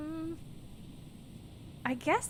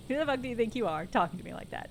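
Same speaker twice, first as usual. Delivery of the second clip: fast aggressive; faster than usual. Shown as a demonstration. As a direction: rattle it off fast. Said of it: "There we go".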